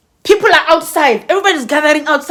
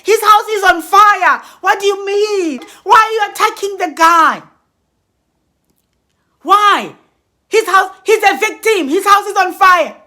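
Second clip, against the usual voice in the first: alarmed disbelief; 4 semitones higher than usual. Retold or imitated. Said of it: "I'm thinking".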